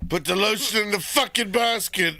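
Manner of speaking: mock yell. Acted yell of movie line.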